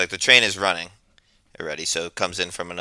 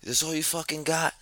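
angry beggar; 10 semitones higher, 5 dB quieter than usual. Retold or imitated. Retelling a beggar berating passengers, mock indignant, high-pitched. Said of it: "He's like".

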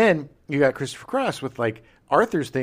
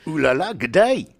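put-on French accent; 3 dB louder than usual. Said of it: "that's exactly how he sounds".

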